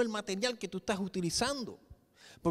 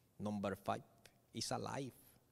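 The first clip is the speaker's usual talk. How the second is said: low, hushed put-on Indian accent; 11 semitones lower, 12 dB quieter than usual. Quoting a line of a robot film, imitating an Indian accent. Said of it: "porque el tipo tiene un acento hindú".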